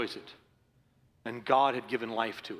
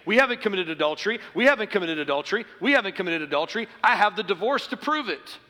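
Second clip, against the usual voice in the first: mock self-justifying; 5 semitones higher, 5 dB louder, faster than usual.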